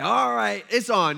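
accepting the challenge. Retold or imitated. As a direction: rise to the old lady's glare. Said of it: "then I'm like".

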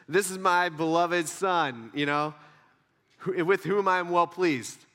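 slow, measured proclamation; mildly deepened voice of God. Acted. Audible voice from heaven about a son, mildly deepened. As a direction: lightly voice a solemn heavenly declaration. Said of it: "my voice got deeper".

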